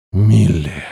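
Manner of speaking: a husky groan of her name; lightly voiced demon moaning with longing; hoarse moan. A narrator's reading. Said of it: "хрипло простонал он".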